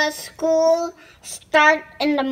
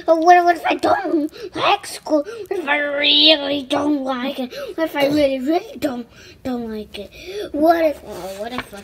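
panicking. Retold or imitated. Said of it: "the pigeon just panics".

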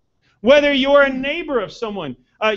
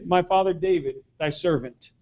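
soft, humble, lowered voice; humble reverence; 4 semitones lower, 6 dB quieter than usual. Retold or imitated. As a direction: say it as a humble servant. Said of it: "He referred to his dad as".

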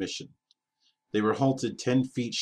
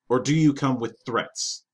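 menacing cyborg king; 4 semitones higher, 5 dB louder than usual. Acted. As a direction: lean in like a suspicious machine king. Robot king challenges envoy.

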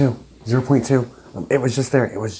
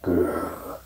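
imitated growl; 5 semitones lower, 4 dB quieter than usual. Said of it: "It literally sounded like a growl".

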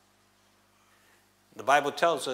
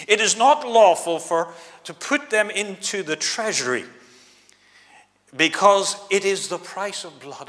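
mock posh accent; 5 semitones higher, 6 dB louder than usual. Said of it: "putting on that posh accent".

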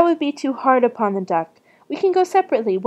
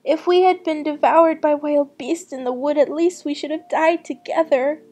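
put-on high-pitched lamenting little girl; distressed lament; 6 semitones higher than usual. A narrator's reading. Gretel laments to God over her brother, distressed. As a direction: keep the plea high all through. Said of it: "cried she".

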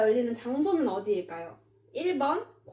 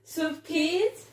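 drawn-out announcer call; quiz show call; 3 semitones higher, slower than usual. Acted. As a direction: call out the quiz segment slowly.

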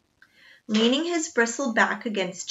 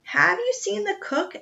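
desperate; 11 semitones higher than usual. A narrator's reading. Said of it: "asked Jack desperately".

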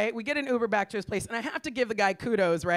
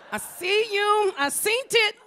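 knowing come-on; 10 semitones higher, 3 dB louder, slower than usual. Acted. Eyeing the guy at party.

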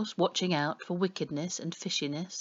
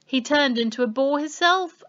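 a growled retort, louder; 9 semitones higher, 6 dB louder than usual. A narrator's reading. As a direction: growl it out like a gruff boar man. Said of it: "growls the boar man".

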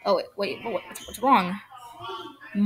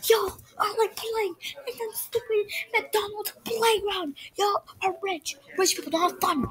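crying shout; 8 semitones higher, 4 dB louder than usual. Acted. Mother scolding her kids for sneaking out, crying shout. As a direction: wail at the kids through tears.

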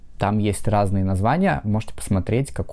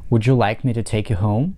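would you like me to take you home with a rise at home; teacher models a yes-no question with a rising tune. Shown as a demonstration. Teacher demonstrating a rising question. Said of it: "два разных паттерна ударения".

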